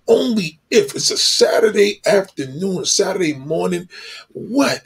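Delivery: mock-dazzled, pitch jumping up on the what's; breathless hammed-up admiration; lovestruck gushing. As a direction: ham up a man smitten in a store. Man ogling a woman in a store.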